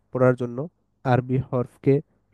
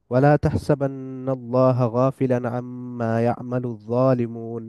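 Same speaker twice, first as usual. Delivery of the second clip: measured Quranic recitation; teacher reciting a verse to the class, measured. Acted. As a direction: recite the verse in a steady chant.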